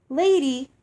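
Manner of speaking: loud call across the field. A narrator's reading. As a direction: call out to her, heart pounding. Calling after the vanishing fairy.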